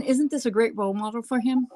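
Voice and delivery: understated sarcasm; sarcastic. Real, not acted. Podcast host to co-host on a killer's cousin, sarcastic. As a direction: say it as a dry, sarcastic question. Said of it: "I say this really sarcastically".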